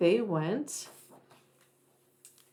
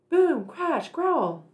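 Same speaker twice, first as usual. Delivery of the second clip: monster noises; 8 semitones higher, much slower than usual. Acted. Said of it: "monster noises acted".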